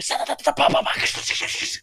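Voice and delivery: mouth-made rattling and banging; rapid ta-ta-pa-pa crash noise; imitated rock clatter. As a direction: sputter out rocks clattering in a fan. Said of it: "and I hear".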